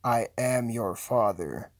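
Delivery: low, slow villain voice; grave movie-villain reveal; film villain quote. Acted. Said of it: "he actually says".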